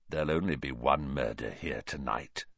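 grinning menace. A narrator's reading. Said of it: "his grin widened".

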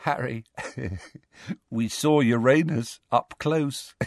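giggly, delirious little voice; feeble giggling. A narrator's reading. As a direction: talk through weak, silly giggles. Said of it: "still giggling feebly".

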